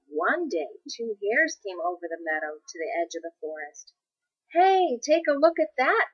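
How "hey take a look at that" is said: high, loud excited call; excited cry. A narrator's reading. Hare calling to his friend, excited cry. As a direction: shout it out, thrilled at the find. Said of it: "cried one".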